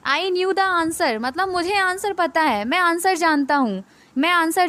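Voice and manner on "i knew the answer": very slow, word by word; slow read-aloud. Shown as a demonstration. Teacher reading the example sentence, very slowly. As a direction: drag out each word for the class. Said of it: "ये वाला".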